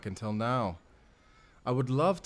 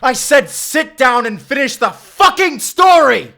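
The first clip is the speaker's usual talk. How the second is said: screaming at full force, far higher and louder; furious scream; 18 dB louder than usual. Acted. Villain screaming at the author to finish his story, enraged. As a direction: roar the order in a rage.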